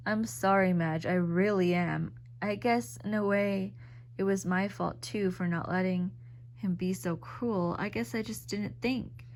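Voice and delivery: compassionate. Acted. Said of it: "Her voice was compassionate".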